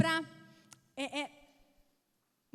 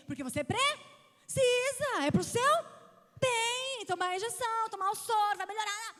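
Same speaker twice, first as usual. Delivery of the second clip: sing-song reassurance; 8 semitones higher, 5 dB louder than usual. Retold or imitated. Mother imitating her soothing reply.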